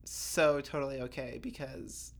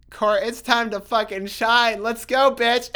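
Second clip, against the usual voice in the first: hyped self-talk; 5 semitones higher, 9 dB louder than usual. Retold or imitated. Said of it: "in my head, I was like".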